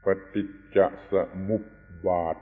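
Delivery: ปฏิจจสมุปบาท syllable by syllable, samup-bat with no extra pa; correct pronunciation. Shown as a demonstration. Teacher asking listeners to pronounce it properly, careful correct pronunciation. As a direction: sound out ปฏิจจสมุปบาท carefully as pa-tit-ja-sa-mup-bat. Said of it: "ช่วยออกเสียงให้ถูกนะ".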